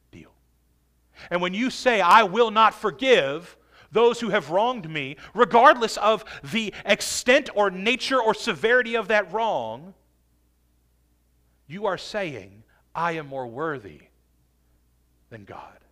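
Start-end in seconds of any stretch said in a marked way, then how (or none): 2.0-5.2 louder, emphatic mock declaration; defiant refusal. Preacher voices someone refusing to forgive, loud and defiant. 12.9-15.8 low, soft, dropping to near whisper; hushed grave claim. Acted. Preacher soberly repeats the unforgiving believer's claim, hushed.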